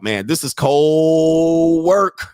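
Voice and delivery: slow and loud; slow drawn-out amazement. Real, not acted. Host reacting to the clip, slow and loud. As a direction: stretch it out, savouring it. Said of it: "I know y'all hate me".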